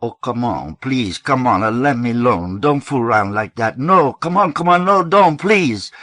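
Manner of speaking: man screaming for mercy in the hallway, hysterical. A narrator's reading. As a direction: scream it as if beaten in the hall. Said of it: "screaming cracked to a hysterical Mexican accent".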